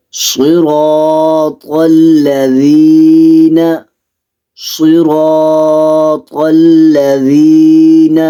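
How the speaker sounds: in صراط الذین Sad, Ra und Ta voll und dunkel sprechen; صراط الذین mit schwerem Anlaut rezitieren; volles Sad und Ra. Shown as a demonstration. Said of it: "را، تا کو پور کر کے پڑھنا ہے".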